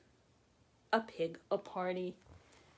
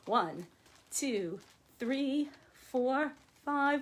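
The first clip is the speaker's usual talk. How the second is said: building count; 4 semitones higher, much slower than usual. Shown as a demonstration. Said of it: "we'll count to five".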